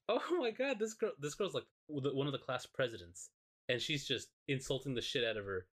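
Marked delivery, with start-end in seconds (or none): 0.1-3.3 mock shocked gasp. Shocked onlooker voiced.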